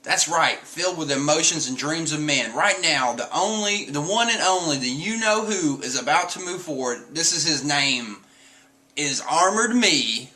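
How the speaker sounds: a lightly voiced cartoon cyborg; Franky's proud intro. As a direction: announce yourself like a showman. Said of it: "So I'm gonna read it to you guys".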